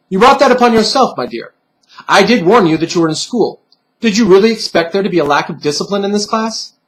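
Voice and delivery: a hint of a prim, high lecturing voice; lightly voiced stuffed bunny. Bunny pin chiding the girl for the punishment, prim and high.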